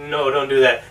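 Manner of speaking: low, deadpan refusal; production team reply. Acted. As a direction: pitch dropped, lightly voiced naysayer. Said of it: "they were like".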